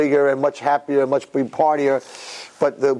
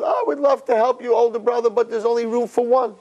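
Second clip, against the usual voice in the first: sly refusal; 9 semitones higher than usual. Acted. Younger brother answers stranded brother.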